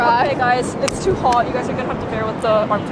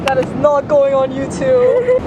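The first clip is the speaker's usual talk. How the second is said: firm; 6 dB louder, slower than usual. Real, not acted. Embarrassed, forbids posting the clip.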